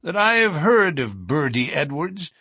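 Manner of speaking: put-on high-pitched old member's voice; older lodge brother. A narrator's reading. Older brother tells the lodge about a detective, high voice. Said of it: "said one of the older brethren".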